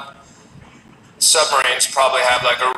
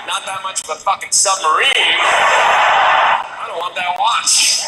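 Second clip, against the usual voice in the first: sarcastic retort; 2 semitones higher, slower than usual. Retold or imitated. Sarcastic reply to the watch owner.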